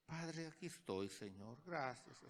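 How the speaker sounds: half-hearted little prayer, no crying out; meek prayer. Shown as a demonstration. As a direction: pray timidly, voice dropping away. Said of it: "¿Así es clamar?".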